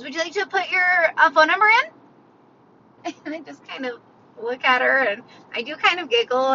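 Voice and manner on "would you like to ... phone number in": higher mock cashier question; imitating the cashier. Cashier asking a walletless customer for a phone number, lightly imitated. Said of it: "and she goes".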